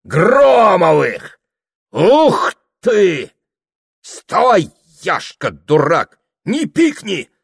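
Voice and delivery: high, loud, slow yelling; a drunk and his neighbours yelling; drunken roar. A narrator's reading. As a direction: shout down everyone. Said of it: "заорал он".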